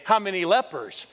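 preacher quizzing the congregation, building in energy; rapid-fire quiz. Real, not acted. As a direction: fire questions at the crowd, climbing. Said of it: "Now let's go real quick".

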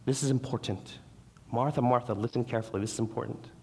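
God calling Martha gently; earnest divine call. Retold or imitated. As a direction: gently urge them to listen. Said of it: "telling them".

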